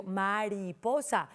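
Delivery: "mariposa" in joined, distinct syllable beats. Shown as a demonstration. Teacher showing voice beats, "mariposa" in syllables. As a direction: say "mariposa" measured, beat by beat. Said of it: "Yo digo".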